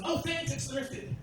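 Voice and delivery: slightly high, drawn-out thanks; casually pleased, imitating the fiancée; lightly voiced fiancée. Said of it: "she just goes".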